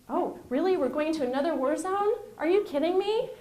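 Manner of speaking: an outraged "you can't be serious"; exasperated disbelief. Retold or imitated. Retold reaction to new war zone.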